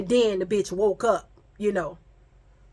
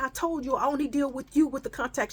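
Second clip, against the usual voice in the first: rapid-fire scolding in a raised pitch; retold yelling; 5 semitones higher, faster than usual. Friend on the phone to the one who told, mock yelling. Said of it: "All I hear is yelling".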